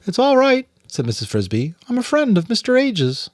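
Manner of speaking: put-on calm the frightened child; Mrs Frisbee voiced. A narrator's reading. Mrs Frisbee reassures the rat.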